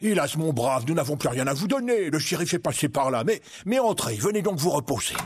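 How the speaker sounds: lightly voiced sorrowful friar; kindly monk.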